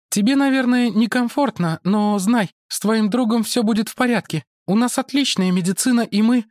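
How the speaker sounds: high woman's voice; woman character. Acted. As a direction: Mara greets the monk, pitched high. (Мара приветствует монаха высоким женским голосом)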